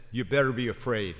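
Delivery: loud, fast mock threatening warning; mock threat. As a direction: bark it as a scare tactic, hammed up. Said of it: "where Jesus says".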